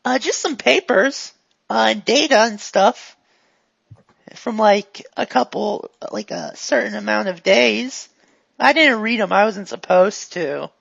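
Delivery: lightly voiced eager goon; a hint of a guileless, upbeat helper; chatty, friendly character.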